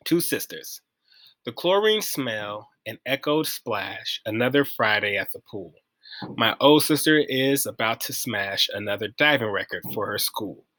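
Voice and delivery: measured, slightly soft poem reading. Acted. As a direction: recite it with pauses between phrases. Reads a poem aloud.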